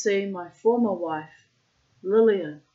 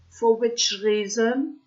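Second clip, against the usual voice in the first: put-on Russian accent; 4 semitones higher, 6 dB louder than usual. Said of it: "I'm putting in the Russian accent".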